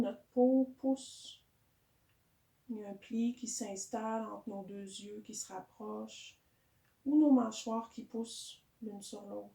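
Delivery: calm yoga guidance with long pauses; guided meditation. Real, not acted. Teacher settling a yoga class into breathing, calm guided meditation. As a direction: guide the breath gently, unhurried.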